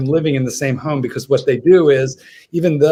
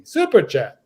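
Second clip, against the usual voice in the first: British accent; 4 semitones higher than usual. Shown as a demonstration. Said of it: "in a British accent".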